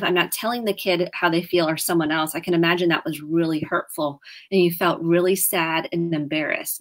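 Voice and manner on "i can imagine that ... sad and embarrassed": tentative. Shown as a demonstration. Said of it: "again, tentative".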